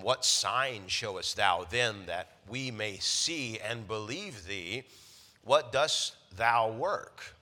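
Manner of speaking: fervent scripture reading. Acted. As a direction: read the Bible aloud with mounting fervor. Reads scripture with rising fervor.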